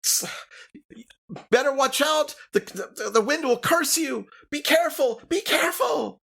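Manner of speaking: put-on high, loud screechy old crone; a cranky old neighbor yelling at strangers, high and loud; old woman yelling warning. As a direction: shriek a warning about the wind. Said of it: "And she yells at you".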